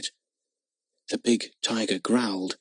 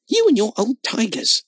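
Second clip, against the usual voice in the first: tearful rage; 10 semitones higher than usual. Acted. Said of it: "with tears of rage".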